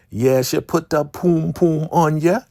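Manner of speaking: Elder Mother teasing the Highest; old lady voice. Retold or imitated. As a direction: play a sassy old woman bragging. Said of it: "My old lady self".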